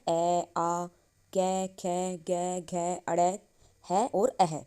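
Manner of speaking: each throat letter sounded out one by one; sounding out the guttural letters for the class; throat sounds recited. Shown as a demonstration. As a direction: recite ए, आ, कै, खे, गै, घै as a teacher's drill. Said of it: "ये हम क्या सारे उच्चारण कंठ से करते हैं".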